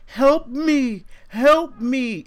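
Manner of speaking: high pleading cry for help, mock panicked; desperate plea. Storyteller voicing the neighbor's high panicked plea. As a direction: imitate the bloody neighbor begging through the door.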